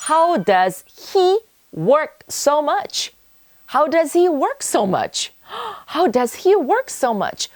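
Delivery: high, slow, awed question; amazed. Shown as a demonstration. Teacher demonstrating an amazed question to learners. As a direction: marvel at how much he works. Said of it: "좀 감탄하다는 듯이 말할 수도 있겠습니다".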